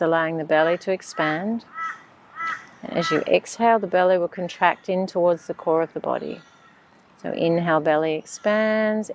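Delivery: calm, unhurried meditation voice; measured breathing-exercise instructions; guided meditation. Acted.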